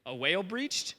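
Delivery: peer and guess, low and halting; hesitant servant. Retold or imitated. Servant squinting at a far-off cloud, hesitant. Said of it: "He's like".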